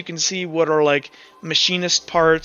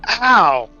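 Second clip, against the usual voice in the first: acted pain; 4 semitones higher, 4 dB louder than usual. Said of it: "the kinda white searing pain kinda comes".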